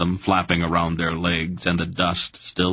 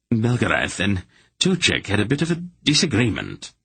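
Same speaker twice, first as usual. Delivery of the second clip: sardonic understatement; 3 semitones higher than usual. Acted. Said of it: "with a sardonic understatement".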